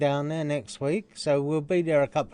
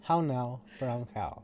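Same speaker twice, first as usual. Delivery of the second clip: elocution-lesson posh Brit; posh British accent; 4 semitones lower, 8 dB quieter than usual. Shown as a demonstration. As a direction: round the vowels in posh English. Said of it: "I can do posh".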